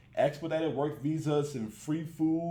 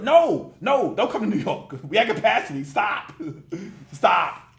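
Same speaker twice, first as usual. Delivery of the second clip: loud pleading; 7 dB louder than usual. Real, not acted. Pleading at migrants to stop.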